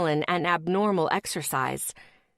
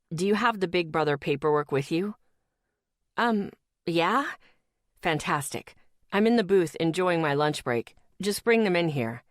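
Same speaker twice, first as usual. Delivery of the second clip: lightly voiced boyfriend. Boyfriend's voice on phone.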